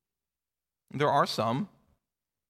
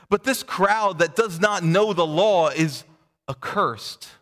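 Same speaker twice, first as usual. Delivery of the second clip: raised, deliberate reading of the passage; scripture reading; 2 semitones higher than usual. Acted. Pastor reads the Pharisees' rebuke to the congregation, measured. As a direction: read the officers and Pharisees out in turn.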